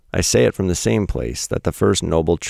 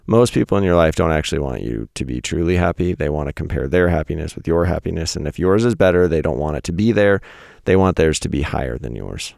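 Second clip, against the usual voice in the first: blunt, slightly more forceful restatement; mildly aggressive. Real, not acted. Podcaster simplifying a truth bomb for listeners, mildly aggressive. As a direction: press the point with a touch of aggression. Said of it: "in a more aggressive tone".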